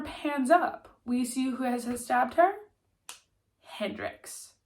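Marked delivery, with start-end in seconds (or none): 3.6-4.5 hushed reveal of the name; suspenseful whispered reveal; dramatic whisper. Acted. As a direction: breathe the name like a secret.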